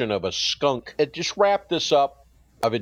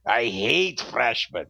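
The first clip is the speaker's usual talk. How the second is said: put-on a slow, lower German accent, lightly done; a slow, lower mock German sneer at the freshmen; 3 semitones lower, slower than usual. The professor repeats his greeting in a lightly done German accent. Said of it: "in his strong German accent".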